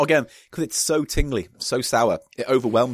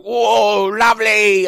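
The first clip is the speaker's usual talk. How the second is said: put-on delighted child; 9 semitones higher, 8 dB louder, much slower than usual. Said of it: "squeeze it in your mouth and go".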